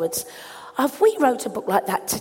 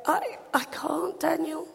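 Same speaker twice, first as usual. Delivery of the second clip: helpless mother; 5 semitones higher, 7 dB quieter than usual. Retold or imitated. Helpless mother answering son.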